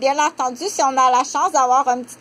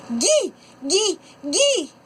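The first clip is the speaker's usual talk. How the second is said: put-on higher child voice saying « gui »; toddler babble; 6 semitones higher, much slower than usual. Shown as a demonstration. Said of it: "un chien dans la maison qui s'appelle Maggie". (« gui, gui » d'une voix d'enfant)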